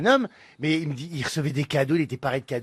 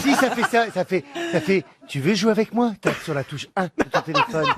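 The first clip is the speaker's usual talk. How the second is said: erotic phone voice; 3 semitones higher than usual. Retold or imitated. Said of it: "Il faut faire une voix érotique".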